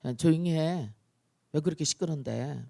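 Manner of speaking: understated rebuke without shouting; mildly annoyed telling-off; calm scolding. Acted. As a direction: hush noisy kids from a place of authority. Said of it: "꾸짖는 사람은 적어도 어떻게 해요".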